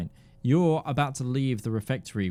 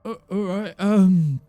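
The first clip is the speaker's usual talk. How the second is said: higher, quick nervous boast; eager guard; 7 semitones higher, 4 dB louder than usual. Acted. Guard volunteering to Ruby, high and eager. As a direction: blurt it out, overeager.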